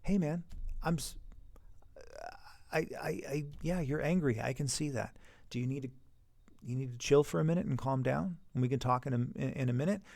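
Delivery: put-on calm the angry kid down softly; calm reassuring teacher. Shown as a demonstration. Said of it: "Just stay calm".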